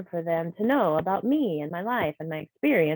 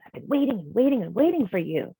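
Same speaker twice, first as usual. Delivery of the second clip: mildly exasperated scolding, pitch raised; demonstrated cross impatience; mad; 4 semitones higher than usual. Shown as a demonstration. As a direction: scowl and complain with a touch of anger. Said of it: "I'm scowling in the second one when I'm mad".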